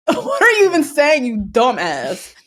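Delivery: imitated telling-off, flaring up in bursts; hammed-up scolding of a dumbass; mock indignation. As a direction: act out her outrage, half amused. Acting out Keisha's angry confrontation.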